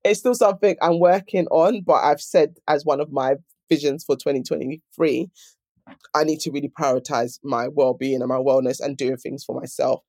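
sore throat. Real, not acted. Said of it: "Sorry, I've got a sore throat".

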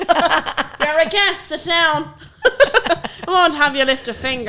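slow, laughing hostess voice; mock fussy mum. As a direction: play the doting mum host through laughs. Mocking mum's voice.

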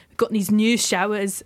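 a hint of a Scottish accent, badly done. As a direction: lightly put on Scottish accent. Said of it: "That's a really bad Scottish accent".

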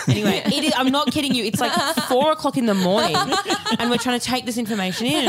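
giggling in disbelief at the story; laughing. Real, not acted. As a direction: push the words through laughter. Laughing retelling absurd call.

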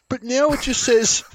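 very high, loud mock wail; mock bawling. Quoting the girl on her ruined tattoo, mock bawling. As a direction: imitate a bawling girl at full pitch. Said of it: "And she goes".

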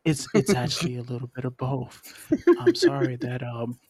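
measured, lightly put-on creep voice; creepy seductive voice. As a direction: creep them out gently, almost like seduction. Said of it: "give my wife this voice".

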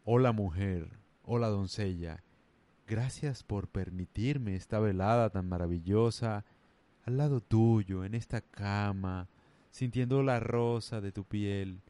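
slow, overly courtly lover speech; mock romantic lover. A man in bed sweet-talking his lover, slow mock-courtly voice. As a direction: ham up a flowery gentleman in bed. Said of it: "imagínate tú un man en la cama".

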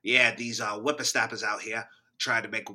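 put-on grumpy old prospector in a Boston accent. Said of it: "Boston's hard".

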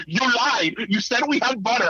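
imitating a child's high-pitched accusation; accusing child. Son's accusation voiced by parent.

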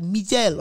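"Miguel" said mee-GELL; imitated odd pronunciation. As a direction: imitate his odd "Miguel", stress on the second syllable. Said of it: "he says it so weird".

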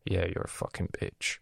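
whispered mock insult. Explaining what the Arabic word means, whispered sneer. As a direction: hiss it under your breath as a sneer. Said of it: "is more like".

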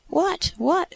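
high-pitched, impatient double question; impatient exclamation. A narrator's reading. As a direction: pester for the answer in a high, eager voice. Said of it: "exclaimed the impatient deity".

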